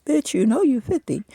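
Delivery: high, loud cartoon voice for the lungs; talking lungs. Her winded lungs scolding her, high and loud. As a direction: give her lungs a sassy squeaky voice. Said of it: "my lungs are like".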